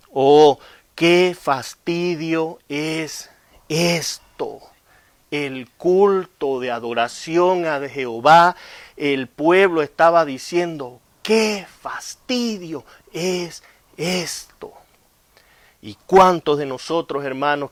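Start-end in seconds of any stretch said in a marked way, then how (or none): 0.1-4.6 bored complaint. Acted. Preacher voicing bored complaining people. 11.2-14.7 drawn-out bored groan, slow; long-suffering whine; weary sigh. Acted. People's bored complaint voiced.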